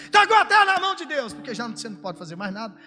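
a hint of annoyed God, high and fast; half-hearted scolding, rushed; mock angry. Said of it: "Fala até bravo".

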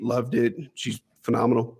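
ordinary delivery

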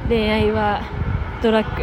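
lightly put-on cool-guy voice; attempted cool handsome voice. Podcaster playfully declaring love's power to a co-host, attempted cool handsome voice. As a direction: try your own take on a handsome voice. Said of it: "自分なりのイケボで言ってみました".

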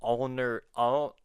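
ordinary talk

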